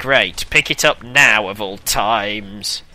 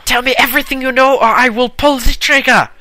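put-on shouted German-accented interrogation, high and loud; fast, high mock-German yelling; 13 semitones higher, 7 dB louder than usual. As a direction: bark threats like a hammy German interrogator. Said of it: "I went with the, uh, German accent".

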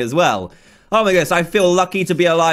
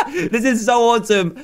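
laughing with joy; 4 semitones higher than usual. Real, not acted. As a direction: giggle through it. Laughing at the fireworks.

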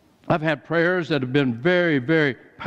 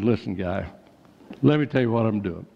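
calm; 5 semitones lower than usual. Retold or imitated. Pastor calming the angry vendor.

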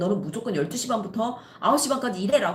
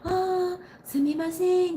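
high, polite Japanese apology; Japanese customer; 10 semitones higher, much slower than usual. Retold or imitated. Japanese customer apologises on the phone, high-pitched.

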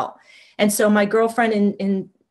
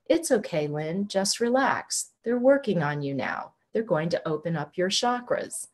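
mild flat, even monotone, a bit softer; monotone translator voice; 5 dB quieter than usual. Retold or imitated. Translator soothing Lynn during the session, mild monotone. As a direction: lightly imitate a calm translator's drone. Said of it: "goes into one of these monotone voices".

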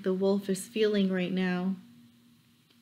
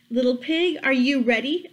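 louder, calling wolf; 2 semitones higher, 4 dB louder than usual. Acted. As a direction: call out like a wolf at the door. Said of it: "asked the wolf".

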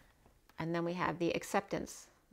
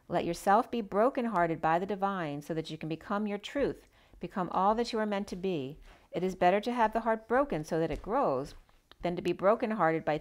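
louder, declaiming read of a card message; louder inspirational reading voice; oracle card reading; 4 dB louder than usual. Acted. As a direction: proclaim the message like a prophecy. Reads oracle card message aloud.

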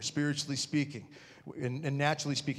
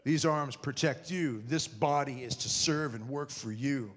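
tender vow; 4 semitones lower, slower than usual. Shown as a demonstration. Husband holding his wife, slow and tender. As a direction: say it slowly to your wife. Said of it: "and you say".

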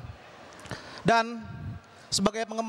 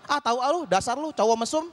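annoyed scolding; 3 semitones higher than usual. Retold or imitated. The annoyed girl calls him a pervert, in a mock-annoyed voice. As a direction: call him a pervert, playfully fed up. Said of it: "kata dia kesel".

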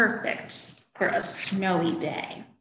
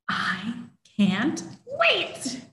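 eager kitten; much slower than usual. Acted. Fourth kitten, slow.

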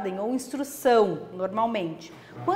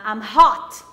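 acted feeling; 2 semitones lower, 9 dB louder than usual. Shown as a demonstration. Acting out feelings vocabulary.

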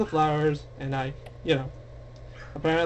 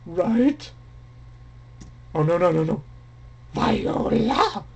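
upset cry. Real, not acted. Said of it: "very upset about this".

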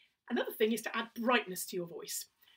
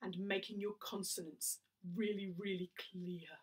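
patronising clarity; 7 dB quieter than usual. Shown as a demonstration. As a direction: speak as if patronising a child. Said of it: "it must sound a little bit like you're being patronising".

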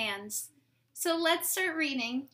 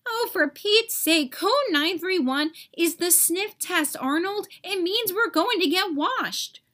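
louder, higher, fed-up explaining; exasperated explanation; 5 semitones higher, 3 dB louder than usual. Acted. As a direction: roll your eyes and spell it out. Germ exasperated explaining to Arnold.

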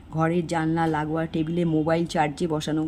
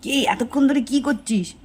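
higher-pitched, nagging mother's voice; scolding mother; 6 semitones higher than usual. A narrator's reading. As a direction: scold a child like a fed-up mother. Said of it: "মা এসে তো বকা দিয়েই যায়".

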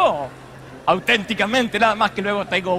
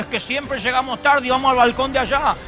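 put-on whiny kid; 5 semitones higher, 4 dB louder than usual. Child stalling before church.

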